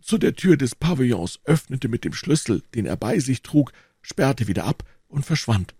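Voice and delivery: lightly voiced old man, pitched a little up; old eyewitness. Old man telling D'Artagnan of the abduction, lightly voiced storyteller. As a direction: recount it as a witness, with lively rises.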